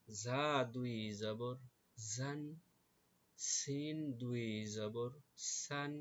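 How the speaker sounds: slow, measured letter-by-letter recitation; spelling drill recitation. Shown as a demonstration. Teacher leading pupils through the chart, slow drill recitation. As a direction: stretch each letter name, then set the syllable apart.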